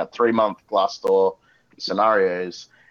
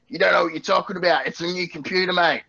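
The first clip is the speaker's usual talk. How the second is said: higher, hurried farmer protesting; pig farmer customer; 7 semitones higher than usual. Acted. Pig farmer on the phone to tech support, indignant. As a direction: put on an indignant farmer, pitched up. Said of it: "who was a pig farmer".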